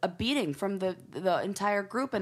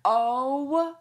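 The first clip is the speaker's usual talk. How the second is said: disgusted; 2 semitones lower, much slower than usual. Real, not acted. Outraged at costume.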